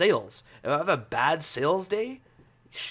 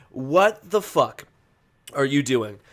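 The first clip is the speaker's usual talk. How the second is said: exasperated outburst; 6 dB louder, slower than usual. Real, not acted. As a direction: drag out each word in disbelief. Ranting at the umpire.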